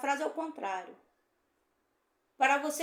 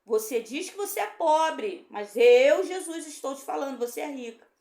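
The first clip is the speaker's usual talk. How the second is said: louder, a preacher voicing Jesus with force; emphatic Jesus voice; 7 dB louder than usual. Preacher voicing Jesus to the congregation, loud and emphatic. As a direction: proclaim it as Jesus rebuking her, punching mas eu. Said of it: "Isso é Jesus falando".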